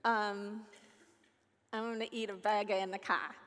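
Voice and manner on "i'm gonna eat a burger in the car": lightly attempted Australian accent; attempted Aussie accent. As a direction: have a tentative go at an Aussie accent. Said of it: "I don't know how to do an Aussie accent".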